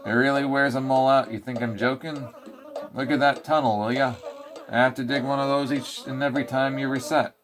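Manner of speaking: cranky mole ranting; lightly voiced ranting mole; grumpy mole lecturing. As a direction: scold the player like a fed-up mole. Mole lectures the player at length.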